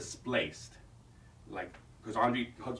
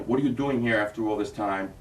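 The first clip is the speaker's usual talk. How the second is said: upset scream; 5 dB louder than usual. Shown as a demonstration. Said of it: "you're screaming, you're upset".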